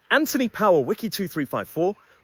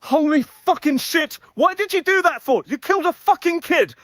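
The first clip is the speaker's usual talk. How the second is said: enraged boss roar; 5 semitones higher than usual. Acted. Boss horrified at killing.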